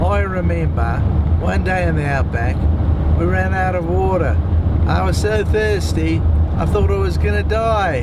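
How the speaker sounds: put-on a light Australian accent. Tired driver warming up his Australian accent, lightly done. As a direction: spin an outback yarn in a mild Aussie accent. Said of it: "now I can do Australian".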